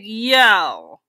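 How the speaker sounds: drawn-out, appalled comic riff; mock disbelief. Comic riffing on an ugly husband, mock disbelief. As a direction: stretch the key words in mock horror.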